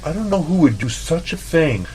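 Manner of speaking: high, mock-innocent voice, laughing through it; mimicking Lucy. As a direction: mimic a coworker feigning shock. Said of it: "and she's like".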